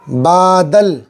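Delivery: slow clear teacher reading of बादल; बादल said slowly, syllable by syllable; model reading aloud. Shown as a demonstration. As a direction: pronounce बादल clearly for pupils. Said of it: "ध्यान दें".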